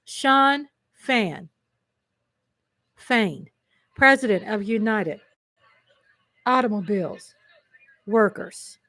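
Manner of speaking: word by word with long pauses; deliberate repeat. Real, not acted. Host repeating a union leader's title for viewers, deliberate repeat. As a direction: savor each part of the name separately. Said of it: "Can we say that again?".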